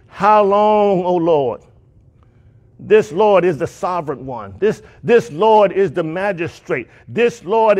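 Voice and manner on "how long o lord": mild, drawn-out cry; loud crying out. Acted. Souls under the altar calling to God, mildly crying out. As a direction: call it out with a long "how long". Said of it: "they cried with a loud voice".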